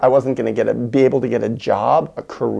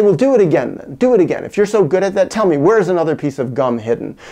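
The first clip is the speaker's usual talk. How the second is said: demanding challenge; 4 semitones higher, 5 dB louder, faster than usual. Retold or imitated. Child challenging mom.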